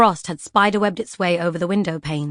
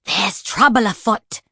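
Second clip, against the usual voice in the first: hissed warning; 2 semitones higher, slower than usual. Acted. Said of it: "she hissed, sharp as a paper cut".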